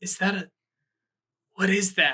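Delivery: very raspy, hoarse, dry, parched croaking voice. Imitating a voice that hasn't had water in a long time: very raspy, hoarse voice. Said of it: "this very raspy, hoarse, it hasn't had water in a long time voice".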